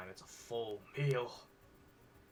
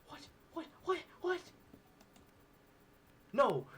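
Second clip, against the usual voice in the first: loud protest; 5 dB louder than usual. Real, not acted. Protesting the fake ending.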